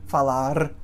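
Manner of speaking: "falar" ending in a tapped or trilled R; Portuguese "falar" with a tongue-tip final R; variant final R. Shown as a demonstration. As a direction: tap the tongue on the last R of "falar". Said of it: "vários sons".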